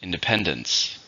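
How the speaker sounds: "Independence" with the stress on PEN; stress on third syllable. Shown as a demonstration. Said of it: "stresses on the third syllable".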